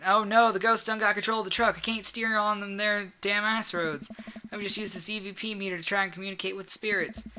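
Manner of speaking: high-pitched Southern trucker in trouble; Southern accent. Acted. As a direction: play a panicked trucker with a Southern twang. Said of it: "All right, southern accent, southern accent".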